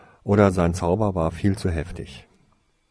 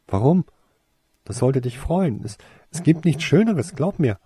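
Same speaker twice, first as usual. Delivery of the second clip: much higher and louder, eager protest; aufgeregt; 10 semitones higher, 7 dB louder than usual. Acted. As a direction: urge him to be happy, bursting with eagerness. Mädchen widerspricht aufgeregt. (Mädchen drängt den Jungen, sich zu freuen: deutlich höher, lauter, aufgeregt)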